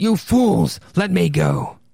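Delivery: acted furious cry. Telling a story as the crowd drags the captured man outside: Sprague yelling. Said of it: "And Sprague is yelling".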